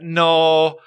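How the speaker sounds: put-on high, drawn-out, insistent Scottish accent; Scottish lady. Scottish lady insists on his parentage, high stubborn Scottish accent. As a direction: contradict slowly in a high Scottish voice. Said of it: "And she went".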